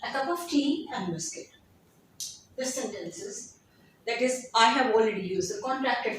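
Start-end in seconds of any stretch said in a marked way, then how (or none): 0.1-1.5 "A cup of tea and biscuit" with "and" cut to n; reduced connected speech. Shown as a demonstration. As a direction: slur "tea and" together. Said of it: "would totally be reduced into it".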